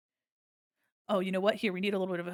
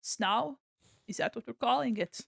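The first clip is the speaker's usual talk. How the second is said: normal talking voice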